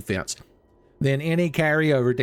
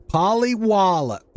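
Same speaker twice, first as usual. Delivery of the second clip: high, slow, loud silly voice; goofy announcer voice; 7 semitones higher, 4 dB louder than usual. Acted. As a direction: boom the name out playfully. Card name in funny voice.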